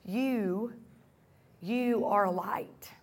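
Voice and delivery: soft unvoiced whisper. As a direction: breathe it like a secret. Intimate repeat of scripture line.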